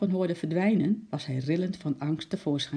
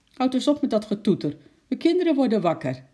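loud, high complaint to a neighbour; roepend; 8 semitones higher, 6 dB louder, faster than usual. A narrator's reading. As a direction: call out in protest. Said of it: "riep de meneer". (luid en hoog protesterend geroepen)

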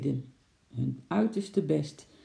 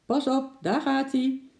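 high, raised warning cry; sudden warning call; 10 semitones higher, 4 dB louder than usual. A narrator's reading. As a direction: call out to clear the way. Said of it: "riep Bart opeens".

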